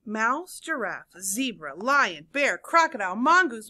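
animated story reading with swooping emphasis and hushed letdowns; read-aloud storytelling. A narrator's reading. Teacher reads seesaw story to children, animated storytelling. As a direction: read it to young listeners with suspenseful pauses.

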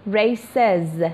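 ریسز ending in a voiced "ez" syllable; ez plural ending. Shown as a demonstration. Teacher showing when s sounds like ez, ریسز with clear "ez" ending.

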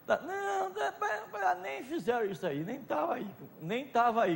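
voz aguda de imitação, mais baixa em volume; imitando o Chim. Retold or imitated. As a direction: imita o jeito displicente do Chim. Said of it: "que nem diz o Chim". (leve imitação do Chim, aguda e contida)

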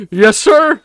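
loud, high-pitched victory whoop; jubilant celebration. Real, not acted. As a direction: whoop and laugh at the win. Player celebrates a success.

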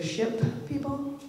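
mock kid slang. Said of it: "as the kids say".

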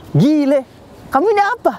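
very high, incredulous question; colloquial, stunned exclamation played for effect; acted startled surprise. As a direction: imitate shock with pitch leaping up. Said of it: "Kaget dia".

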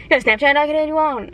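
laughing through an imitated mumbled ask; laughing imitation. Retelling a weird guy's request through laughter. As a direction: mimic the awkward guy while cracking up. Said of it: "thought he was speaking Spanish".

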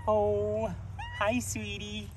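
high, soft pet-talk; cooing at animals. Real, not acted. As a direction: coo gently to a little animal. Cooing at a rabbit.

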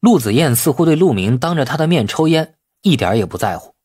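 plain reading voice

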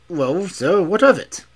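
high, quick, insistent servant voice; a young servant protesting to Holmes, pitched high; anxious young servant. Acted. Servant insisting to the detective that nobody passed, high and urgent.

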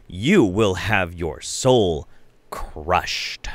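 slow, heavy, lightly ominous warning; mock doom. Host warning viewers their soul will be crushed, slow and mock-grave. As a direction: drag out the threat like a horror trailer. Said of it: "warning viewers mock-ominously".

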